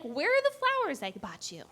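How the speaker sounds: mildly put-on boyfriend's demand; demanding question. Boyfriend asking after missing flowers, mildly demanding. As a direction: press the question, pitch swooping up.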